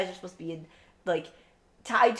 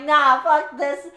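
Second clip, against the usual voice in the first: mock angry god; 5 semitones higher, 9 dB louder, much slower than usual. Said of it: "Now that shit is gone".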